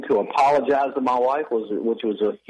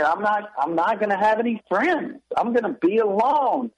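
mildly dismayed, higher-pitched inner thought; dismayed realization; 8 semitones higher than usual. Retold or imitated. Young Bible student telling himself he'll have no friends, dismayed. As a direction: voice a younger self's worry, pitched up.

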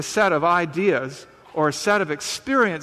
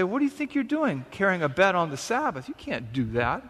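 indignant Pharisees; 4 dB quieter than usual. Retold or imitated. Preacher voicing Pharisees scolding the healed man, mock indignant. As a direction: play the scandalised religious leaders scolding.

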